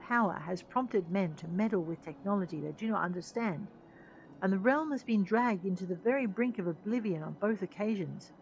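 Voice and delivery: a hint of a grave leader lecturing; earnest captain laying down the creed; lightly voiced stern chief. Chief lecturing his crew on their creed, mildly stern. Reads game character dialogue.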